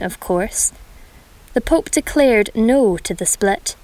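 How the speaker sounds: measured poem reading with short pauses; poem recital. Acted. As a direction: read it out like a rhyming story poem. Reads a poem aloud.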